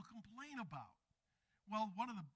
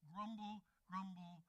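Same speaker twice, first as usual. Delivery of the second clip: grumbling. Acted. Preacher mimicking Adam's complaining, grumbling. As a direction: grumble it under the complaint, trailing down. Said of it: "It sounds like what it is".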